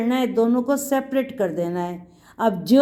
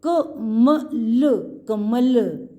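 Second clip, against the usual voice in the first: कमल stretched very slowly, then said once more; teacher leading children in chanting कमल; drawn-out model word; much slower than usual. Shown as a demonstration. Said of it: "सब बच्चे बोलो".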